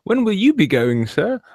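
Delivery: high, breathy-free fawning lilt, hammed up; fawning servant. Peasant asks Lord Copplethwottle when he leaves, in a hammed-up high fawning voice. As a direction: squeak it up like a groveling peasant to his lord.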